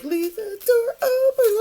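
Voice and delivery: mocking whiny voice. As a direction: mimic a whiny plea, high and teary. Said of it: "I was like".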